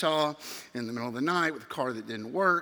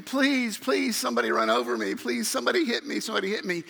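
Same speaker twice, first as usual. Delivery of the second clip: mildly raised, pleading imitation; mock screaming; 5 semitones higher than usual. Bleeding man runs at stopped drivers, mock screaming. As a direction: imitate a desperate man begging, pitch up then falling. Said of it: "he runs and he's screaming".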